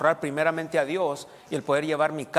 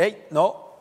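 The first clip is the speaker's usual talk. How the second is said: firm, higher reprimand, short of shouting; raised voice; 4 semitones higher, 5 dB louder than usual. Acted. Father correcting his children, voice moderately raised. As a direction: lift the voice to stop them. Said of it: "tengo que levantar mi voz".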